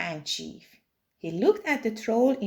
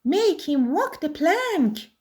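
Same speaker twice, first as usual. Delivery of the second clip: higher pirate demand; yelled; 7 semitones higher, 4 dB louder than usual. A narrator's reading. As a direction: egg the crew on. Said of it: "yelled Ben Buckle".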